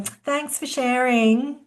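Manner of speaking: slow, sarcastic "Thanks for sharing" rising on "sharing". Shown as a demonstration. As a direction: drag out "Thanks for sharing" with a mocking rise on "sharing". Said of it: "don't have to be sarcastic and go".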